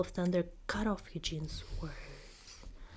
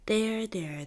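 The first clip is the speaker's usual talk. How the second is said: comforting; 3 semitones higher, 5 dB louder than usual. Acted. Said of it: "the governess comforted her".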